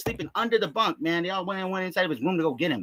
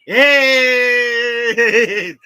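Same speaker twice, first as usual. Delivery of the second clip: sharp shout; 4 semitones higher, 10 dB louder than usual. Real, not acted. Outburst shout.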